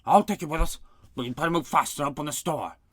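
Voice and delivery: shouting. A narrator's reading. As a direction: shout through the hatch. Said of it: "the captain shouted to the voice".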